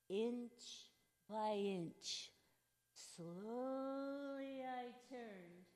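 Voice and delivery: very slow, soft, creeping; hushed suspense. A narrator's reading. Building fear on the night walk, slow and soft. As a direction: draw it out like a ghost story.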